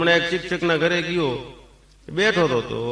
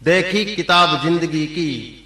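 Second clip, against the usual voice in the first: poem recital; slower than usual. Shown as a demonstration. Poet reciting his own couplet to the crowd, slow and grand. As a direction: declaim each phrase slowly, like a mushaira. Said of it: "મારી પોતાની લખેલી છે".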